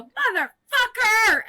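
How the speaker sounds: drawn-out, high-pitched cussing; comic pained outburst of swearing; acted labor curse. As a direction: let the swear burst out high and long.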